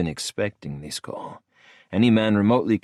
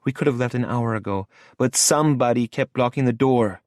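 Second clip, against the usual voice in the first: Lola's voice; 6 semitones higher than usual. A narrator's reading. Lola voiced, complaining.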